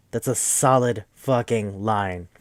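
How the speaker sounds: slow, weighty stress on "solid fucking line"; drawn-out emphatic praise. Real, not acted.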